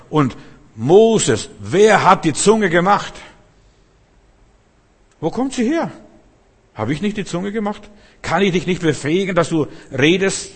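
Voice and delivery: high, loud, booming rebuke; God speaking. Acted. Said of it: "was Gott sagt".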